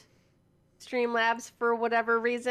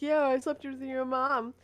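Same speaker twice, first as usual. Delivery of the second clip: lightly put-on squeaky kid, higher; 5 semitones higher than usual. Imitating a kid trash-talking on game chat, lightly squeaky. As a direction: mimic a squeaky young gamer. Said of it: "like, a squeaky voice saying".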